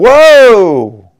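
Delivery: very loud, excited shouted whoa. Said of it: "See that?".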